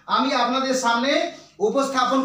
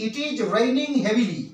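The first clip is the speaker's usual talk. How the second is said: slow dictation; much slower than usual. Shown as a demonstration. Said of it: "প্রথমে আমি এক number বলতে পারি".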